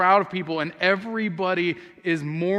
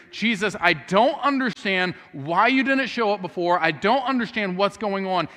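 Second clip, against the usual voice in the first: 1 earnest trust. Retold or imitated. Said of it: "what she's saying here is".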